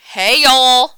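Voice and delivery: shouted greeting. Pretend. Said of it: "Welcome back to Exaggeration Station".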